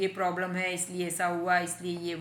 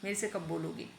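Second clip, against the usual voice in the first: coaxing plea; 5 dB quieter than usual. Acted. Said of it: "feeling वाले हैं".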